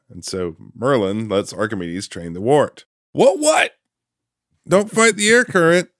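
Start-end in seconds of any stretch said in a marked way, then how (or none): 3.1-5.9 high, flustered owl. Retold or imitated. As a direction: squawk it like a fussy owl. Voicing Archimedes training Wart.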